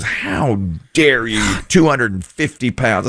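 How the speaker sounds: slow, drawn-out indignant scolding; retold telling-off, slow and indignant; mom reaming out. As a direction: imitate an outraged mom, stretching the words. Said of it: "the mom reamed me out".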